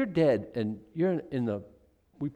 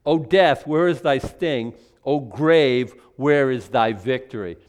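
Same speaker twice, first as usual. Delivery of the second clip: louder, declaiming the verses; formal Bible reading, raised voice; scripture reading; 4 dB louder than usual. Acted. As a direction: proclaim the text with weight.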